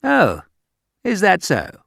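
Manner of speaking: high, mock-polite Oh is that so; polite English disbelief. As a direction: feign polite surprise. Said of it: "you just say".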